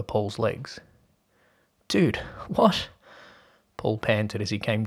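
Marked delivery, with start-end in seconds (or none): 1.9-2.9 high startled exclamation; surprised. Acted. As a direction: blurt it out in shock. Sudden surprise at friend.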